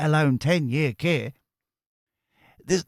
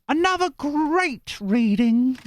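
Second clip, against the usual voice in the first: very high, slow squeaky voice; high-pitched viewer voice; 13 semitones higher, much slower than usual. Retold or imitated. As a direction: read her message in a silly squeak. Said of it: "all the voices are me".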